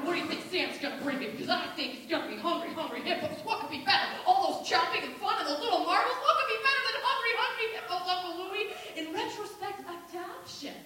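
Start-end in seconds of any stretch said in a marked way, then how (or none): 0.0-8.7 acted little kid, fast and eager; excited child. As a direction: babble about presents in one breathless rush. Excited child chattering amid adult quarrel.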